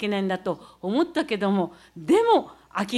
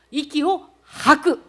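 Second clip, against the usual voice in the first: slow exhale demo; 3 semitones higher, 5 dB louder, much slower than usual. Shown as a demonstration. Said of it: "こういう段差を登るときは".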